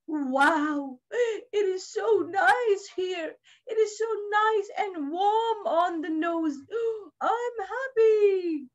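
slow, lightly voiced happy mouse; contented mouse. Mouse settles on the bear's warm nose, mildly blissful. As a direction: savor the cosy spot, lightly in character.

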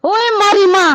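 high-pitched wailing outcry; loud outraged wail. Acted. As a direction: cry out in outrage at being robbed. Villager wails on hearing of theft.

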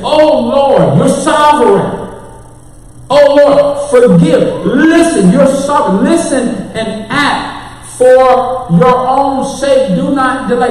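Daniel praying. Acted. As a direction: cry out to God for mercy. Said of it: "so Daniel is saying".

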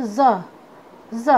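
ज as a buzzed "zuh"; phonic letter sound. Shown as a demonstration. Teacher showing students the sound of Z, phonic letter sound. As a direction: sound out ज as Z starts "zoo". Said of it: "जेड का sound होता है".

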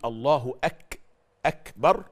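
"أكبر" with a clear k and audible puff of breath; aspirated kaf. Shown as a demonstration. Teacher showing the correct takbir, whispered release on ك in "أكبر". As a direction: break after "أك" to show the breathy k release. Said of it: "بدل ما يقول".

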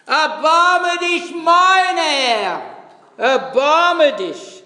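high, pleading cry for mercy, voice lifted. A narrator's reading. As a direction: call out to the Lord, begging for your daughter. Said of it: "schrie und sprach". (flehender Ruf, hoch und laut)

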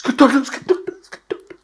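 imitating a lost voice, high and strained; mock voiceless friend, high strained rasp; voice gone airy. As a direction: squeeze out an airy croak with only breath. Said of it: "കാറ്റ് മാത്രമേ വരുന്നുള്ളൂ".

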